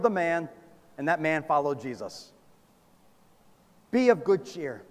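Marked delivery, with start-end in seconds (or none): 3.9-4.8 gentle reassurance. Retold or imitated. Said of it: "He said it often".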